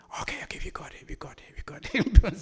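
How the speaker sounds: unvoiced hushed okay, okay; breathy whisper of okay, okay, vi gør det; whispered agreement. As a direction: whisper it like children giving in. Kids giving in, acted scene.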